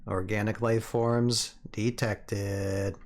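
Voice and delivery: slow, even machine voice; robot voice. Pretend. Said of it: "You gotta do the robot voice".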